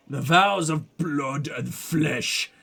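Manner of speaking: slow, solemn otherworldly intonation; ominous inner voice. Acted. Gut voice tells the detective of vows, slow and solemn. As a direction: drag it out like a ritual chant.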